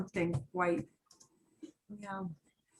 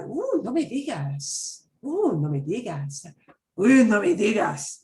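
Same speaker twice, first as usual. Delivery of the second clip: exasperated, last one louder; annoyed, getting fed up; irritated; 3 dB louder than usual. Shown as a demonstration. Teacher demoing mad tone, building irritation. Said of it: "if they say that mad".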